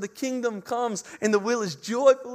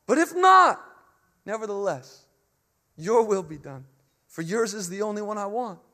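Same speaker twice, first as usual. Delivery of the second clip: earnest prayer; 5 dB louder than usual. Pretend. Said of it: "when we pray".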